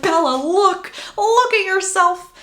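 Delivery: high, loud, eager urging; excited friend holding up a mirror. Retold or imitated. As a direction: push her to look, bursting with excitement. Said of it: "and she's like".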